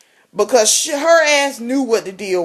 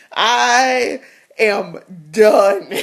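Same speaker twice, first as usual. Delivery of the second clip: laughing; much slower than usual. Real, not acted. Laughing declaration.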